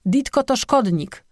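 high, slow accusing cry; high-pitched creature denouncing a rival; yelled accusation. A narrator's reading. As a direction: cry it out high, drawing out the words. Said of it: "wrzasnął Łełek".

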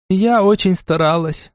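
slow, smiling pleased reply. A narrator's reading. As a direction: say it with a smile. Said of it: "с улыбкой ответила". (с улыбкой)

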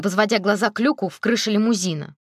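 ordinary delivery

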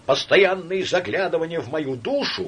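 high, loud, near-screaming rant; hysterical outburst. Acted. Laevsky in hysterics at his friend Samoylenko. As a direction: spill it all out in hysterics.

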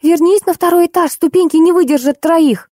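high-pitched piping voice; Манюня. A narrator's reading. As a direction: pipe up with a warning. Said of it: "подала голос Манюня". (высоким голоском, предостерегая)

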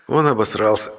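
grinning. Acted. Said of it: "широко улыбнулся брат".

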